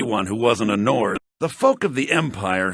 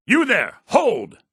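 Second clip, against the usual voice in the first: higher, louder hail to stop someone; calling out; 8 semitones higher, 3 dB louder, slower than usual. Acted. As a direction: stop a passerby in his tracks. Officer calling out to stranger.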